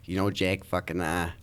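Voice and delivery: put-on thick Boston accent, relaxed dad. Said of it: "that's a good accent".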